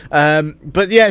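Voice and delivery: ordinary talk, nothing marked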